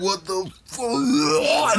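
high, slow, stretched out; stunned penis voice. Acted. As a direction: drag it out high in disbelief. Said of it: "he's like".

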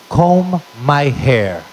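put-on very slow drunken request; imitated drunk dad. Drunk father on the couch asks his son, slow drunken imitation. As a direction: draw out each word, playing drunk. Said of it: "weirdest requests when he was drunk".

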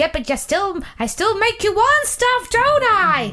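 high, pushy advert voice; advertising personified. Pretend. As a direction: needle them as irresistible advertising. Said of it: "Hi, I'm advertising".

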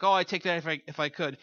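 tossed-off, flippant offer; glib offer. Retold or imitated. A casual friend glibly offering to take the cancer. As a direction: say it like you don't mean it. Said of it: "say it glibly or, or really flippantly".

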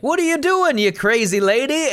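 high-pitched startled driver; mock outraged disbelief; acted indignant alarm. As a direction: yelp it at a crazy stranger, hammed-up. Acts startled driver at stranger.

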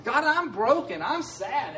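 rising plea, pouring out feelings to God; praying emotions aloud. Shown as a demonstration. Preacher demonstrating a prayer to his congregation, rising emotional plea. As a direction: let each feeling spill out to God, climbing in pitch. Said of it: "pray your emotions".

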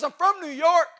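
high, loud, pointed; imitating the young woman; high New York girl. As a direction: announce it proudly like a New Yorker. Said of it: "She goes".

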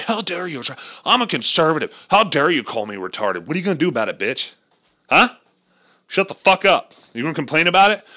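loud aggressive mock tough guy; picking a fight; mock angry conservative. Comic playing a furious conservative, shouting.

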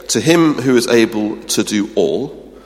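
"him" lifted and leaned on, fairly loud; first rung of a rising build; stress on him. Shown as a demonstration. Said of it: "four levels of verbal redundancy".

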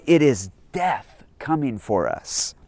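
grave, fearful "It is death coming for us"; a touch of solemn terror; dread. Shown as a demonstration. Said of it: "better read and understood this way".

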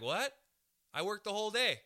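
playing his younger self, stunned and protesting; shocked. Comic retelling himself getting fired, mock shocked protest. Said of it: "And I was like".

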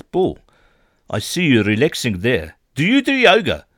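imitating flatmate Brian. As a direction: ham up the intrusive yoga evangelist. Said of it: "He goes".

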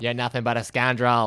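put-on a weak Boston accent, barely there; faint hint of a Boston accent. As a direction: lightly try a Boston accent on the line. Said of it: "is that your best Boston accent?".

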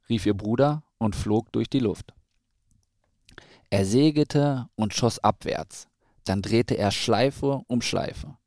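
measured storybook narration with clear pauses; children's story reading. A narrator's reading. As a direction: read a picture book to a small child. Reads a children's story aloud.

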